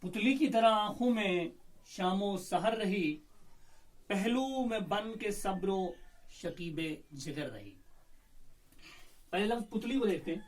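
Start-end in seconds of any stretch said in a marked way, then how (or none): 0.0-7.8 slow, measured recital of an Urdu couplet; poem recitation. Shown as a demonstration. Teacher reciting the couplet to students, slow and measured. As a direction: savour each line of verse.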